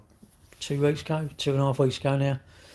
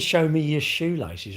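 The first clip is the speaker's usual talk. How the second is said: slow, drawn-out silly demand; mock request; 4 semitones higher, slower than usual. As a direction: ham up the strange ask. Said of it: "If I said".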